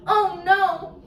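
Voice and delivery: a sharp gasp, then oh no; gasp of alarm. Acted. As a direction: gasp like the story just shocked you.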